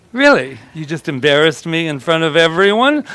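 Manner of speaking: lightly acted outrage; livid.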